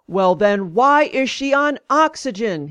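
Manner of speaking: retold angry insistence; demanding. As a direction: demand it like an exasperated doctor. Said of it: "he demanded".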